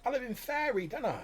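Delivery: very high goblin squeak. Acted. Goblin Smudge telling the player, very high. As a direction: goblin pleads it lives in Faerie. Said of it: "he's like".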